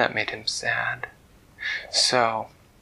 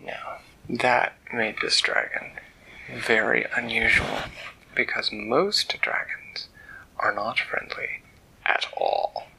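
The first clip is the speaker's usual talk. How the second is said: hushed bedtime narration; slower than usual. A narrator's reading. Father telling his children a bedtime story, hushed.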